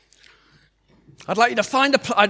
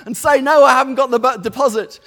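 fearful inner voice; 4 semitones higher, 3 dB louder, faster than usual. Retold or imitated. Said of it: "all the fears and the doubts".

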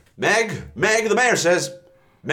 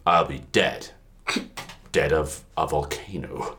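volcano voice; 10 semitones lower, 5 dB quieter than usual. Acted. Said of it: "volcano voice".

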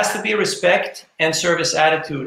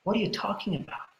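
put-on puzzled teenage son; 3 semitones higher, 7 dB quieter than usual. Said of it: "his son looks at him and goes like".

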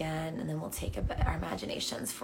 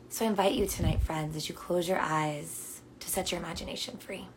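calm meditation guide with long pauses; unhurried, soothing invitation to notice and breathe; guided meditation. Real, not acted. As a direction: guide them gently into their breath. Returns to guiding the meditation.

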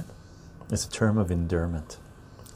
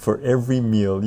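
reciting a rhyme. Shown as a demonstration. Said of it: "U S version".

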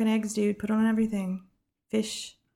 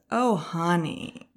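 slow, patronizing drawl; condescending oh honey; much slower than usual. Retold or imitated. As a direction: talk down to her sweetly, slowly. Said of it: "Elizabeth says".

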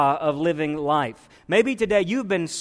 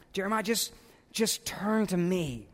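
gentle divine voice; 6 dB quieter than usual. Retold or imitated. God speaking to Jeremiah, voiced.

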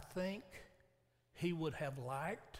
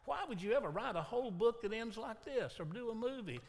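exasperated why; 6 semitones higher than usual. Retold or imitated. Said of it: "walk out of there saying".

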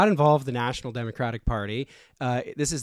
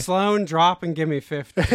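drill sergeant; 4 semitones higher than usual. Pretend. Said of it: "And he said".

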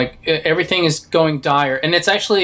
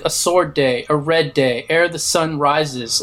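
quoting Theoden's speech; slower than usual. Retold or imitated. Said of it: "the way he does".

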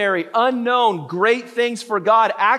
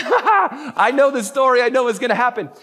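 smug laughing; 4 semitones higher, 4 dB louder than usual. Retold or imitated. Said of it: "Winnie's over here just laughing".

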